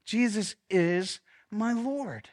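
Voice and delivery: slow, weighted creed; slow declaration. Shown as a demonstration. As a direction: pastor models the line for the room. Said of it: "Say that with me".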